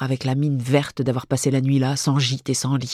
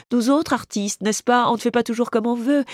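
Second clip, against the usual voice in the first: resigned lament; 6 semitones higher than usual. Acted. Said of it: "qui se lamente résignée".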